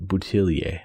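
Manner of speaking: "Boutillier" ending in -ee-ay, settled and falling; fancier pronunciation. Real, not acted. Radio host picking the fancier surname, "Boutillier" with final -ay, decided. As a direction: settle on the French-sounding "Boutillier", -ay at the end. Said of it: "I'll say that sounds fancier".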